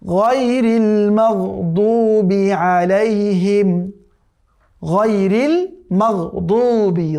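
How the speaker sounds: drawn-out tajweed chanting; slow Quran recitation. Shown as a demonstration. Teacher reciting the verse for students, slow chant. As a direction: recite each word slowly and carefully.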